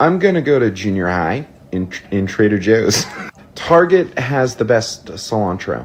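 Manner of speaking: low-pitched generic American accent. An Irishman showing the accents he can do, in an American accent.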